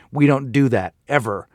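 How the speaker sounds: measured parental firmness; stern. Acted. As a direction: set a firm rule for a child. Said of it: "and sternly".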